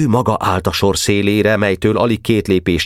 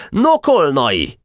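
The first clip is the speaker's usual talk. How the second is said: slow, high-pitched call; shouted call; 8 semitones higher, much slower than usual. A narrator's reading. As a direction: call a comrade by name, high and drawn out. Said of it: "kiáltotta Boka". (elnyújtott, magas hangú kiáltás)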